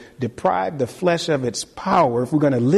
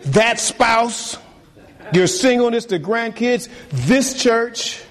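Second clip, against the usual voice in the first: higher, building list of worries; rising list; 5 semitones higher than usual. Real, not acted. Pastor listing the flock's worries in a raised building voice. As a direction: pile the worries up, pitch raised.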